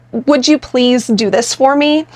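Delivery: slow, asking with please up front; tentative ask; pleading question. Shown as a demonstration. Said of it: "that again comes off as a question".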